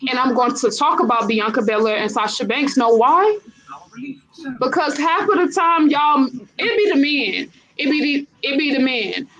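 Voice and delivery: fiery trash-talk promo; wrestling promo. Pretend. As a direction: call out a rival like a heel wrestler. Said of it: "I'm about to cut a promo".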